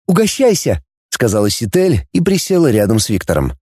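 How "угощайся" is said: a touch higher, friendly offer; lightly voiced girl Dana. A narrator's reading. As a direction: offer food lightly as a young woman. (лёгкий девичий голос, угощает)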